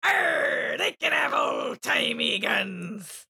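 slow strained pirate shout; pirate straining hard, very slow. Acted. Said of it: "make it sound like, uh, there's something stuck in my butt".

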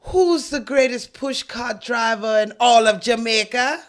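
slow, rousing Jamaican question; Jamaican accent attempt. Recruiter flatters the push cart driver, Jamaican accent. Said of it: "Don't judge me on my accent".

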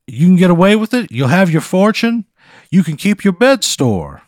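high, loud blustery cartoon rooster voice; Foghorn Leghorn. Scene: the time-travelling quilt introduces itself to Pat, in a blustery cartoon rooster voice. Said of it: "Foghorn Leghorn".

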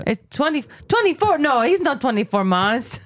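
poor attempt at a Brazilian accent; Brazilian mom's accent. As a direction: imitate a Brazilian mother's English, badly. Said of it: "that accent sounds awful".

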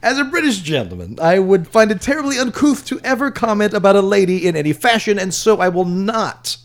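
Cumberbatch-style British accent; posh British accent read. Shown as a demonstration. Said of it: "Do Benedict Cumberbatch".

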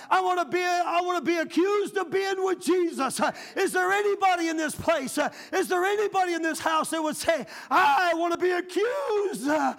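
high, pleading call to the congregation; rising revival appeal; preaching at full force. Acted. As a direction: cry it out to the whole house. Preaching climax.

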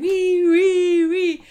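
high, loud playground squeal; gleeful wee. Retold or imitated. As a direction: squeal like a kid on a swing. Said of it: "I was swinging back and forth going".

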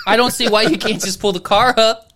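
amused mock complaint; laughing mimicry.

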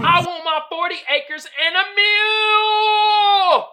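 loud, high angry yell; angry demand. Retold or imitated. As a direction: demand it furiously. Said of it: "And it reads".

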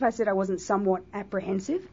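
a catch in the throat; frog in throat. Real, not acted. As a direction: talk through a frog in the throat. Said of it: "frog in my throat".

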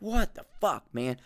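indignant challenge climbing to a very high pitch; exasperated rant, voice shooting up high; East Coast outburst. Retold or imitated. Telling off someone who got offended, high-pitched indignant outburst. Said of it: "it's East Coast Frank came out today".

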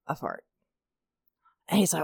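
ordinary delivery

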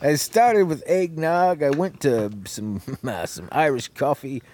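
slurred tipsy showman, slowing down; getting drunker. Acted. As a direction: play it loose and tipsy, drink in hand. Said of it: "I'm getting drunk, boys".

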